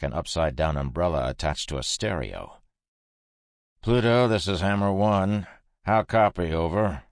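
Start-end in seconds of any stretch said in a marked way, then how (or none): 3.8-7.0 louder clipped radio call; crackly military radio. Acted. Radio call on comms system.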